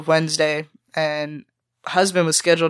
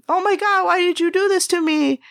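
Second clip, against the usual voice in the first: much higher, put-on voice of the manager wailing; whiny boss lament; 13 semitones higher than usual. Cook mocking the GM's complaint, high whiny impersonation. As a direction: moan it like a self-pitying boss.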